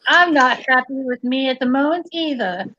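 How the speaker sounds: hint of a put-on Australian accent; bad Australian accent. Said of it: "the worst accent, Australian accent ever".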